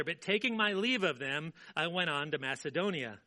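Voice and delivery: measured public Bible reading; scripture reading. Acted. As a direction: read the verses out with weight. Reads scripture aloud.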